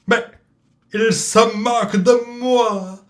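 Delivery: high, slow indignant cat voice; outraged cat. Acted. Cat Salem outraged at the mocking parrot. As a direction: protest like an offended cat.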